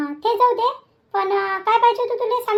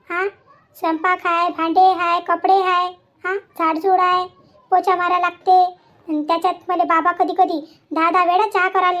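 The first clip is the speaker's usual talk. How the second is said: louder, fed-up listing of chores; exasperated complaining; 4 dB louder than usual. Acted. Daughter complaining to her mother about housework, exasperated and loud.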